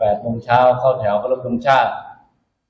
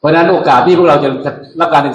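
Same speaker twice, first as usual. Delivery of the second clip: drill sergeant; 3 semitones higher, 5 dB louder than usual. Real, not acted. Officer addresses recruits, raised voice.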